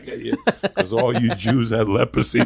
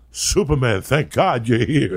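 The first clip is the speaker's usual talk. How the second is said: Gene Hackman quote; 2 semitones higher than usual. Retold or imitated. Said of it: "when he goes".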